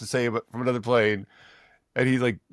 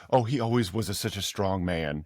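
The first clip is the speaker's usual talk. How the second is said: mock fond widow; 3 semitones lower than usual. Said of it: "she goes".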